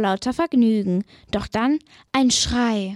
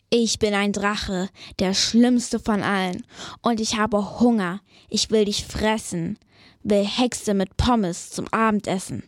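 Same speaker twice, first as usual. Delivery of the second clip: dragon voice; 2 semitones lower than usual. Acted. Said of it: "sehr laut und sehr böse".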